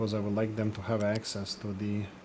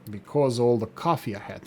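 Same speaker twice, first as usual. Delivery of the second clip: usual speaking voice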